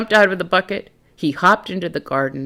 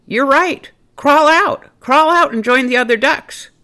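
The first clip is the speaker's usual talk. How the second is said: high snail voice; 10 semitones higher, 5 dB louder than usual. Acted.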